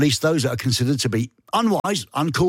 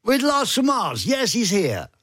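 high, slow, drawn-out announcer intro; 7 semitones higher, slower than usual. Acted. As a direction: announce the name like a showman. Host repeats intro, announcer-style.

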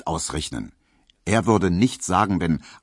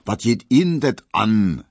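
a louder, earnest reprimand; stern rebuke; 4 semitones higher, 5 dB louder than usual. A narrator's reading. Herr Tesch rebukes Herr Neumann, earnestly reproving. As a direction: put a nosy colleague in his place. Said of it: "sagte Herr Tesch ernstlich verweisend".

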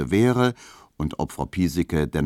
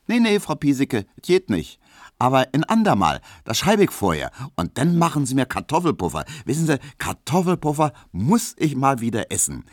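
lightly voiced indignant young Berlin woman, higher; mock outrage at a fickle man, pitched up; young servant girl gossiping, indignant and higher; Emma; 8 semitones higher than usual. Emma takes leave.

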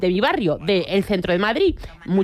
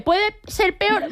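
slow mock ominous; 9 semitones higher, much slower than usual. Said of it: "que tú dices".

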